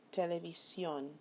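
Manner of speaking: SIÓN stressed in Televisión; last-syllable stress. Shown as a demonstration. Teacher shows a word that breaks the rule, Televisión stressed on SIÓN. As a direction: say Televisión with the weight on its final syllable. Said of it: "this is where the accent is".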